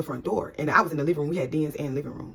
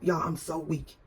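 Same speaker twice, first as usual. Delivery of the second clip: ordinary talk, nothing marked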